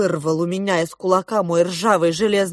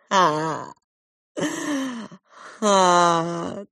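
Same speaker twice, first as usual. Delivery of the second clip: the crab's sardonic chuckle; dry mock laugh; 3 dB quieter than usual. A narrator's reading. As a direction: laugh coldly.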